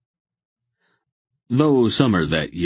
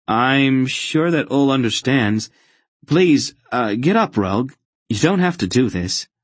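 higher, louder pleading voice; young Geryon, uneasy; 8 semitones higher, 5 dB louder than usual. Acted. Boy begging the kneeling fanatic to get up, uneasy. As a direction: urge him up, embarrassed and insistent. Narrator plays the embarrassed boy.

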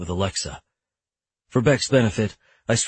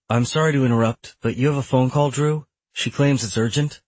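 apologetic interruption, lightly raised pitch; lightly voiced assistant; 4 semitones higher than usual. Tenant interrupts a lawyer's meeting about a phone call, apologetically. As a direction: politely break into the meeting as the assistant.

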